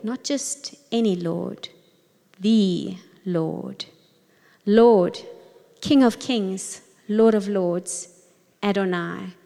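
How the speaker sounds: slow pondering, word by word; meditative reading. Acted. Leader guiding listeners through the verse, slow and meditative. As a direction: let each word sink in slowly.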